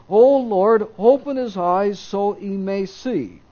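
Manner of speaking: 1 fervent prayer. Acted. Elisha calls out in prayer.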